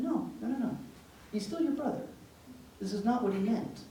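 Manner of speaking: high, gentle insisting; reassuring protest. Retold or imitated. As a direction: talk an upset niece down. Voices aunt soothing upset niece.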